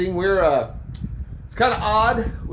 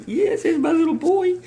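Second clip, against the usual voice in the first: much higher cooing pet voice; 12 semitones higher than usual. Real, not acted. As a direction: coo lovingly at the cat. Cooing to his cat.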